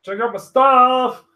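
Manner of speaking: loud, high, drawn-out mock plug; hammed-up pitch, high and slow; mock self-promotion. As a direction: stretch it out like an over-eager show-off.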